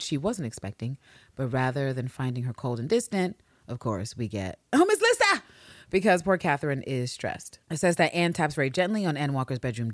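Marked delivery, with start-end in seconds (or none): 4.7-5.4 high, loud, eager "Oh, Miss Lisa!"; excited cry. Acted. Stressed character greets her friend with a high, excited cry. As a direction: call out her name in delight. Character exclaims in script notes.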